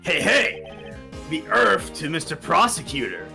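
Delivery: impatient calling-out. Acted. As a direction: call him back to earth.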